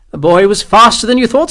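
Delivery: clipped command from a captain; officer's voice. A narrator's reading. Captain reassuring the sergeant, high haughty officer voice. Morris to Hexwell.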